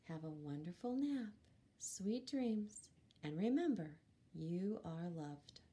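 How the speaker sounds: tuck the listener in gently; tender bedtime goodbye. Acted. Bedtime sign-off.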